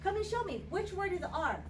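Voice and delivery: high, excited game-show call; kids show host. Acted. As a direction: summon him like a TV host.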